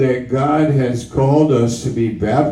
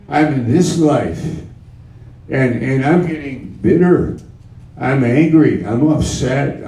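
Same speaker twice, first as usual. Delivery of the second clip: bitter unbeliever; 4 semitones higher than usual. Acted. Preacher voices a bitter unbeliever.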